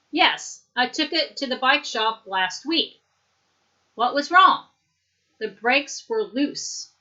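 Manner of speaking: lightly acted, lively textbook conversation; dialogue read aloud. Teacher acts out bicycle repair chat for students, lightly animated. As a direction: read both parts with exaggerated questioning and reacting tunes. Reads the same dialogue again.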